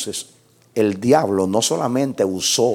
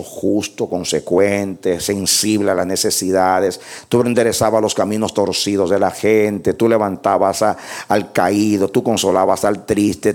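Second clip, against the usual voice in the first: ordinary talk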